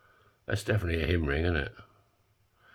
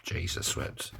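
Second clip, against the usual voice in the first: whispered; 7 dB quieter, slower than usual. Real, not acted. Exasperated aside.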